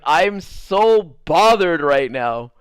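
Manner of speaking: slow, loud venting; acted-out drawn-out annoyance; retold exasperation. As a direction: stretch it out, thoroughly bothered.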